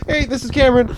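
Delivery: a hint of work phone voice; habitual phone greeting. Shown as a demonstration. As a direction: rattle off a rote call opener. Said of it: "whenever I call or anything".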